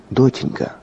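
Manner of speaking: frightened, hushed whisper. A narrator's reading. Terrified father to his dying daughter, whisper. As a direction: whisper it to a sick child. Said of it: "я прошептал".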